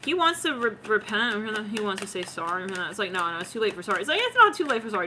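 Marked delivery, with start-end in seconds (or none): 3.1-4.0 low, quick acted brush-off; dismissive refusal. Refusal set against the plea. 4.2-5.1 higher, insistent acted objection; protesting plea. Plea answering the refusal.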